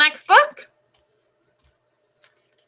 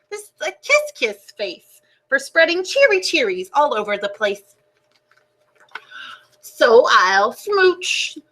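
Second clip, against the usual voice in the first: higher, slow, delighted fish refrain; cheery kiss fish; 4 semitones higher, slower than usual. Acted. Transformed fish singing his new happy refrain, higher and slow. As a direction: beam it out with big smooches. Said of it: "it turns out I was wrong".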